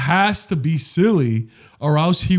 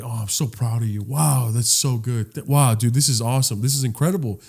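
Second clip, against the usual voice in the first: proud father; 3 semitones lower, 4 dB quieter than usual. Retold or imitated. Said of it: "the father that raised him would always tell Clark".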